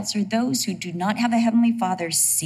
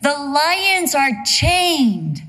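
voice from the castle; 4 semitones higher, 4 dB louder, much slower than usual. Acted. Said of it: "a voice comes from the castle".

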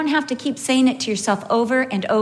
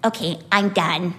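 low, slow, mildly subdued mock child; spent toddler; 5 semitones lower than usual. Child getting up from the fit chair, spent. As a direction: lightly imitate a child giving up the fit. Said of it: "she goes".

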